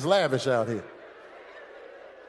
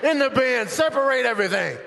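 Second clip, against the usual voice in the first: forceful stream of barked orders; yelling. Acted. TSA agent at passengers unpacking into bins, yelling. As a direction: holler instructions down the security line. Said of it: "You hear 'em yelling".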